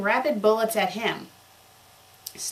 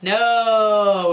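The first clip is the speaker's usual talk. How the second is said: a much louder desperate no; shocked cry; 9 dB louder than usual. Acted. Dumbledore sees the grenade coming, a loud cry. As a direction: yell as the grenade lands.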